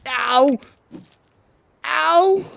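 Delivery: high, loud "ow" yelp; loud high cry of mock hurt; yelp of pain. Real, not acted. Getting hurt in the game.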